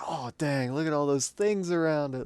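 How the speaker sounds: put-on squeaky high delighted kid voice; excited kid. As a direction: gush like a kid over presents. Kid seeing presents under tree.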